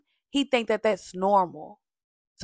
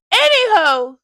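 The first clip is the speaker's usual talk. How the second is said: sing-song anywho; 10 semitones higher, 11 dB louder than usual. Real, not acted. Dismissive sing-song pivot.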